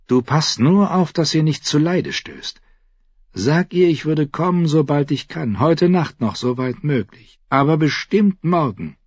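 Tyrion's voice. Acted. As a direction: pitch up into Tyrion's quick voice. Tyrion sends word to Shay.

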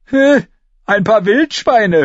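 scornful. A narrator's reading. Arya mocks Lommi's boast, scornful. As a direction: scoff at the boast. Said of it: "höhnte sie".

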